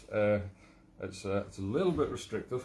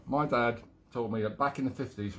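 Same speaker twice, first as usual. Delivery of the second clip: corrected retake in mild Cockney; attempted London accent. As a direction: do a rough London accent, badly faked. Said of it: "London, mate, London".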